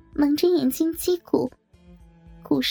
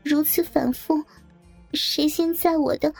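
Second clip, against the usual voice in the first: much higher, halting, distressed voice; pained; 6 semitones higher than usual. A narrator's reading. The coerced bridesmaid goes on reciting rules, pained. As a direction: recite reluctantly, high and pained. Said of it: "继续痛苦地说".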